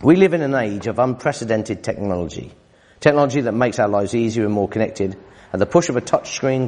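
reading an article to the congregation; preacher reading a quoted passage; reading aloud. Acted. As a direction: read it out steadily. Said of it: "Listen to this".

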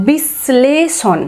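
বিশ্লেষণ said very slowly, the শ held long as if doubled; বিশ্লেষণ as "bish-shleshon", slow with a long sh. Shown as a demonstration. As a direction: drag out বিশ্লেষণ, leaning hard on the শ. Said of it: "শয়ের উচ্চারণ জোরে হবে একটু বা শয়ের উচ্চারণ দুবার".

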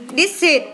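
"Đít xịt" with the ending sounded as a voiceless "xịt"; teacher's demo of "Đít xịt", s not z; hissed S ending. Shown as a demonstration. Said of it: "thì đọc là đít gì biết không".

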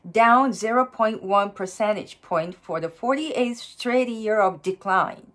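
slow, measured English news article read-aloud. Shown as a demonstration. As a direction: read it out slowly and evenly as a pronunciation model. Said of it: "音読してみますね". (ゆっくり丁寧な英文の音読)

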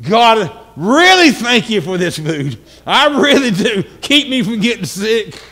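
hammed-up earnest pleading grace; extra-serious prayer. Diner praying over food that looks bad, extra-serious prayer. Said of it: "we really need to get serious".

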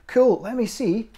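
high, loud, drawn-out enthusiasm; eager kid wanting a look, slow and high; excited daughter. Acted.

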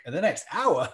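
mock-surprised candidate questioning the time; incredulous question. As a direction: echo it back in mild disbelief. Candidate's startled reply acted out.

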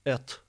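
"Et" with an unechoed hard T; T without qalqalah. Shown as a demonstration. Teacher showing why it fails, unechoed "Et". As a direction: end "Et" on a voiceless T, no bounce. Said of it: "tı diye okursak kalgale yapılmaz".

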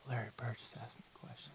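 hushed, unvoiced disbelief breaking into a giggle; awed whisper. Thinking to himself after Larry Bird spoke to him, awed whisper. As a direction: breathe it like you can't believe it, then laugh. Stunned inner thought.

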